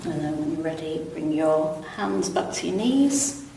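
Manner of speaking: calm, unhurried stretch instructor; easy, even yoga-class delivery with long pauses; guided relaxation. Real, not acted. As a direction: guide them gently through it, pausing between phrases. Leads gentle seated stretches.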